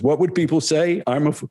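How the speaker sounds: lightly voiced guru reassuring a student; Gurudev. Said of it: "He says".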